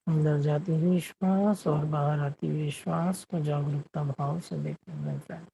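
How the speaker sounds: unhurried meditation guidance with long silences; guided meditation. Acted. Meditation host guiding the group to watch their breath, guided meditation. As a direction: lead them gently inward, leaving long pauses between phrases.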